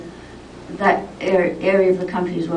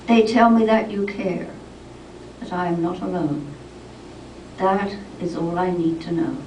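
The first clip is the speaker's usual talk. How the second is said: poem reading. Acted. Poet addressing a dying friend in verse, solemn poem reading. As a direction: let each line settle and fall at its end.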